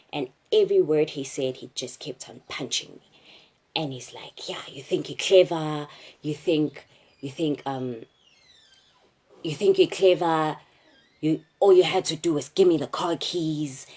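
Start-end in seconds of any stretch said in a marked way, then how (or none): 4.5-13.9 taunting robber. Retold or imitated. Robber taunting while punching.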